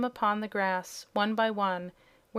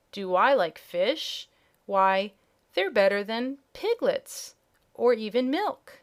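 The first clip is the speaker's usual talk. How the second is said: excited kitten; 5 dB louder than usual. Acted. Kitten thrilled by fish offer.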